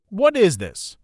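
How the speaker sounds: a touch of a demanding husband. Acted. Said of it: "he demanded".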